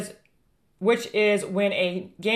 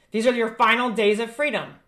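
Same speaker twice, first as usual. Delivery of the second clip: doomsday street preacher. Acted. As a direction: proclaim the judgment like a street preacher. Prophecy read against Hunter Biden.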